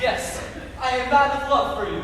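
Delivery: melodramatic passion. Acted. Melodramatic lovers' scene.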